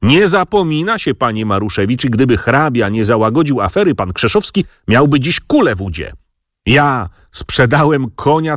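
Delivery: a mild build from grumble to outraged cry; voice rising. Acted. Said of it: "coraz mocniej podnosząc głos".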